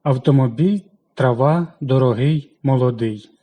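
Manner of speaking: автомобіль, трава, дорогий, молодий with the final syllable punched; наголос на останньому складі; stress on the last syllable. Shown as a demonstration. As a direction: land firmly on the end of each word. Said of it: "І останній".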